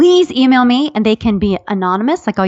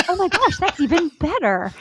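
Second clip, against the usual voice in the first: high, laughing mock delight; delighted child imitation; 9 semitones higher, 5 dB quieter than usual. Mother imitating daughter offered a Chinese dog, high and delighted. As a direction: pitch it up like a thrilled daughter, through giggles.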